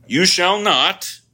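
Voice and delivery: "You shall not" slow, high and loud, leaning on "shall"; emphatic command. Shown as a demonstration. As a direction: spell out the prohibition with weight on "shall". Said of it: "look at the words".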